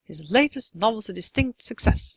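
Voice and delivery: beats on "latest", "novel's", "distinct", "success", small syllables hurried; sped-up stressed rhythm. Shown as a demonstration. Lecturer reminds students of English timing, "latest" and "success" on quick beats. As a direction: hurry "novel's a distinct" to keep in time. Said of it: "really have to speed up".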